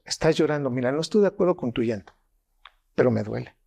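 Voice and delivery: measured, falling statement of sympathy; accepting acknowledgement. Acted. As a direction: acknowledge it evenly, without judging. Models an accepting response to tears.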